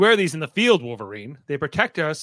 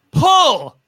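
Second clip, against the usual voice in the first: loud, higher call for the next target; 8 semitones higher, 8 dB louder than usual. Acted. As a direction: call the launch across the yard. The speaker calls for the next plate.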